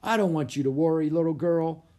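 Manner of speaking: put-on kindly, quick reassurance to a child; a touch of fatherly kindness, slightly lifted; kindly policeman. A narrator's reading. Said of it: "the policeman said kindly".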